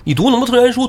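你读那么多圣贤书 yelled in rage, peak on 贤; 宋江怒斥黄文炳，高声喝骂; furious acted outburst. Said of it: "就那表情才能说这番话".

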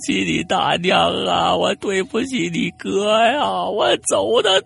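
high, drawn-out ghostly howl of grief; wailing. Acted. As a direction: howl the apology, stretching every word. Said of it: "这会儿已经嚎起来了". (拖长音高声哭嚎)

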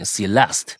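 Celeste with the stress on the final syllable, le-STE. Shown as a demonstration. Host showing co-host where the stress falls, deliberate stress. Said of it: "那是重音".

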